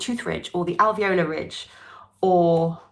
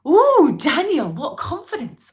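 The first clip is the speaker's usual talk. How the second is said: excited praise; 9 semitones higher, 9 dB louder than usual. Real, not acted. Teacher praising student.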